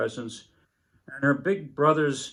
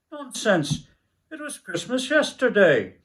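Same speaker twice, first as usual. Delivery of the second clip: put-on high, indignant little girl voice; protesting little girl; 7 semitones higher, 4 dB louder than usual. A narrator's reading. Little girl arguing with her siblings, high and indignant. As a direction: insist it was yesterday, high and cross.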